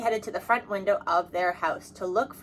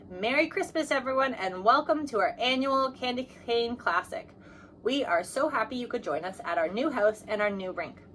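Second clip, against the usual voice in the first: dad's announcement; 3 semitones higher than usual. A narrator's reading. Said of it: "he announced".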